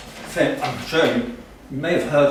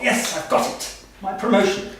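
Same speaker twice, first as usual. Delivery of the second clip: higher, mildly triumphant imitation of father; pleased with himself; 4 semitones higher than usual. Father spotting Churchill waiting on the tarmac, mock triumph. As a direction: play his pleased, hopeful thought with lifted pitch. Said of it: "My father was very pleased with himself".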